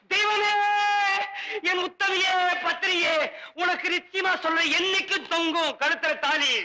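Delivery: high, theatrical gratitude; gushing praise. Acted. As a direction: cry out adoring thanks to his wife. Drinker gushes thanks for liquor. (உணர்ச்சி பொங்க உரக்கப் புகழ்தல்)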